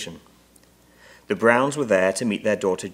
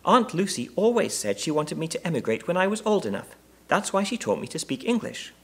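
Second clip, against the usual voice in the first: very high little bear voice; small bear, earnest; 9 semitones higher than usual. A narrator's reading. Bear telling the Browns about its aunt, earnest. Bear's voice.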